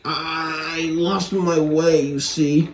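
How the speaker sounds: slow, odd put-on lorry voice; lorry's exclamation. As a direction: drag it out like a lost old lorry. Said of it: "exclaimed the lorry".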